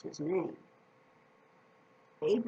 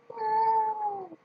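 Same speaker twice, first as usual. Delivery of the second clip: put-on high, loud cheer for the kids; 5 dB louder than usual. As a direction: lead the children in a big cheer. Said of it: "Let's all clap for Austin".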